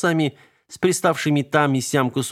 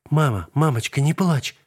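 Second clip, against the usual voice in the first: mumbling sobbing; 5 semitones higher than usual. A narrator's reading. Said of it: "бормотала она, тоже всхлипывая".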